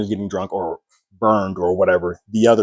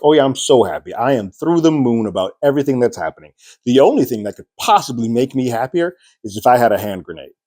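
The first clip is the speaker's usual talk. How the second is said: sarcastic; 3 semitones higher than usual. Retold or imitated. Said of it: "In that sarcasm".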